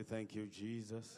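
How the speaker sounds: slow, shouted evangelist cry. Shown as a demonstration. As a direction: call it out like a revival preacher. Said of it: "use the voice of an evangelist".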